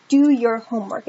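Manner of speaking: a hint of a stern parent; mild mock order; parent's command. Shown as a demonstration. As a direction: parent telling a child to do homework, lightly stern. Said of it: "your parents or your teacher would tell you".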